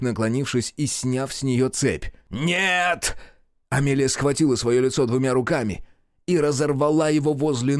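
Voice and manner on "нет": высокое короткое «Нет!»; вскрик ужаса; испуг. A narrator's reading. Мерл в ужасе. (Мерл в ужасе вскрикивает)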